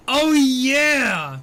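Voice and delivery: loud, high burst of recognition; big, high, drawn-out outburst; excited recollection. Real, not acted. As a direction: exclaim it as the memory suddenly hits. Sudden recollection while reading chat.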